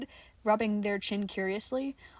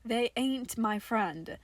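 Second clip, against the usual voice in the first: dry; slower than usual. Acted. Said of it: "in a dry tone".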